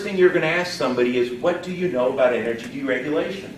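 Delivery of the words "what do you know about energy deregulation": casual low-key question, pitched a little low; natural, relaxed. Shown as a demonstration. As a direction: ask it naturally, without any push. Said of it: "Natural, relaxed".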